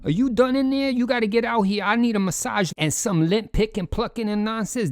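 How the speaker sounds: impatient partner yelling at the bathroom door; mock demanding girlfriend. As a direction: nag him to hurry out, hammed-up. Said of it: "she being screaming and banging on the door".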